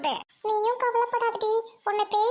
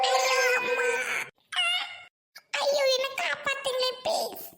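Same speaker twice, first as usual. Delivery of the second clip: whimpering plea for rescue; hammed-up frightened wail; acted fright; 3 semitones higher than usual. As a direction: cry out for mother, scared. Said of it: "எனக்கு பயமா இருக்கு".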